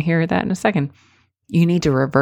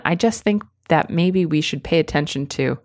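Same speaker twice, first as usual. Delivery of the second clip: hedging. Shown as a demonstration. Coach contrasting with the weak phrasing. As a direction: hedge it weakly.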